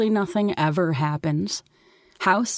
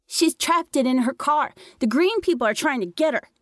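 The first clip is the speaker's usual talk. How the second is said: put-on scared little boy; 9 semitones higher than usual. A narrator's reading. Little brother explains Mom's danger.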